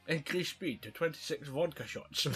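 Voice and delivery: a light Scottish lisp, joking; Sean Connery impression. Riffing on the film to a friend, a light Connery impression. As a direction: mimic Connery giving orders with a lisp. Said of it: "talking like this".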